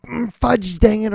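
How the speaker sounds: high, drawn-out pretend frustration; mock mad. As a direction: imitate a polite non-swearer fuming. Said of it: "they use fudge".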